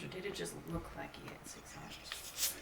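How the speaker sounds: hushed, secretive aside; whisper. Acted. Player asks in a hush.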